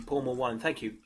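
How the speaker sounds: ordinary talk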